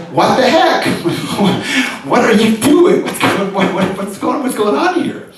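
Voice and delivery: put-on a high, hurt little-girl voice asking what is happening; bewildered child. Daughter looks at her father, hurt and bewildered. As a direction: sound betrayed and baffled, like a small child.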